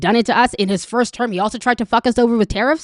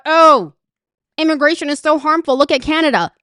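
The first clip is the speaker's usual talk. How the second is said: mocking quote; 4 semitones higher than usual. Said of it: "to talk about".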